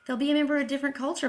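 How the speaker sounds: lightly mocking, high dismissive voice; mocking the audiologist. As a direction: lightly mimic a dismissive expert. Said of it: "she offers".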